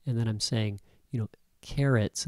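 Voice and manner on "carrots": "carrots" lifted and a bit louder; stress on carrots. Shown as a demonstration. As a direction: give "carrots" extra punch. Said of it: "I'm emphasizing the word".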